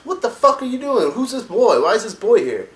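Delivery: high, loud furious orc warlord roar; Hellscream shouting. Retold or imitated. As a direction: bellow it like an outraged warchief storming in. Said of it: "Grom Hellscream walks in and says".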